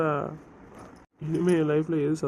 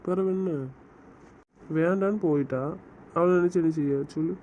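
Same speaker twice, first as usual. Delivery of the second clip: heated anger. Acted. Angry man snaps at his friend over his wife, heated. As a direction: lash back at a friend who keeps pushing.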